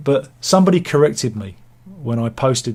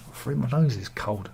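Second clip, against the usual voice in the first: muttered softly, freezing; quiet cold complaint; 6 dB quieter than usual. Real, not acted. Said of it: "I'm cold".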